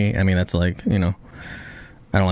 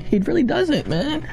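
emphatic defense. Real, not acted. Passionately defending Usopp.

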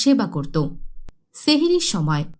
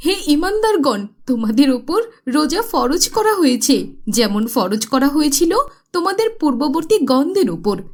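mother explaining; 5 semitones higher than usual. Acted. Mother answers, quoting Quran.

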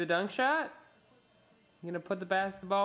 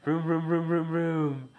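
louder run of engine revs; truck vroom; 4 dB louder than usual. Pretend. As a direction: rev it up in repeated vrooms. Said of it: "My truck goes vroom".

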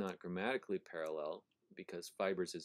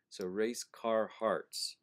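slow read; 3 semitones higher, 5 dB louder, much slower than usual. Shown as a demonstration. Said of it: "You have".

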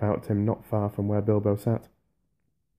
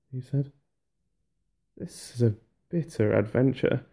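sorrowful farewell; 4 semitones higher, 3 dB louder than usual. Acted. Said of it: "filled with sorrow".

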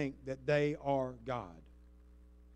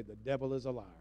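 sweetly; 4 semitones lower, 4 dB quieter than usual. Shown as a demonstration. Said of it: "look at them really sweetly".

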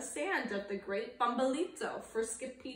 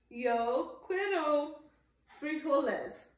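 somber declaration; 3 semitones higher than usual. Acted. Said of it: "his most somber voice declared".

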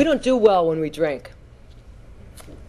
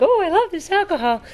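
higher, giddy mock voice of a tipsy woman; 11 semitones higher than usual. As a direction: play the happy drunk girlfriend, pitched up. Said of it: "she's like".

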